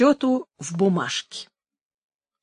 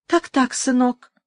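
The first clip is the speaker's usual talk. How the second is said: pleased; 3 semitones higher than usual. Acted. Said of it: "проговорила с удовольствием старуха".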